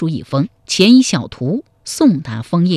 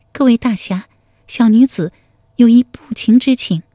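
put-on raised, polite young woman's voice; a humble young lady making a bold request; 5 semitones higher than usual. A young woman politely asks the heroes a favour, raised and modest.

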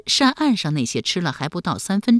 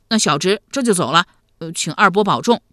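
put-on louder, lightly boyish farewell; a hint of eager youngster; obedient young nephew; 5 dB louder than usual. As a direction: take leave like a dutiful lad.

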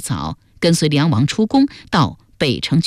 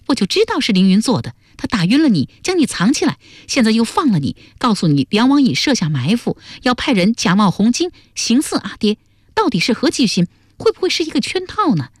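higher-pitched, insistent character voice; suspicious young woman figure; 5 semitones higher than usual. Acted. Duan Sengnu suspects Lingyun of a trap, insistent and suspicious. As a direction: argue it through, rising higher towards the final suspicion.

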